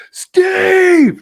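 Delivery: loud, high call across the pub. Retold or imitated. Greeting the bartender Steve from the door, loud high call. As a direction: belt his name out as you walk in.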